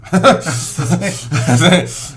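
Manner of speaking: laughing. Real, not acted. Laughing echo.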